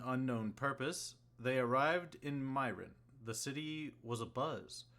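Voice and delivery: measured storyteller recap; story narration. A narrator's reading.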